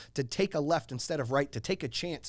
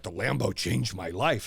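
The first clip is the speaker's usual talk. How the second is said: lightly mocking a smug friend, slow and lower; a hint of a dreamy Lambo owner, slow and lower; mocking partner; 6 semitones lower, slower than usual. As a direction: drag out the words like a smitten car owner. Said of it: "mock him and mock him".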